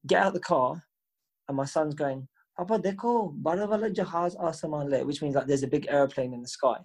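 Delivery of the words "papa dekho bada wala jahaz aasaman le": higher-pitched, lightly voiced small child calling to dad; excited little son. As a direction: imitate an excited child pointing something out. Voicing his young son pointing at plane.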